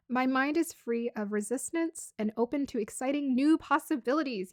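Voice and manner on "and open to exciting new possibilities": ordinary talk, nothing marked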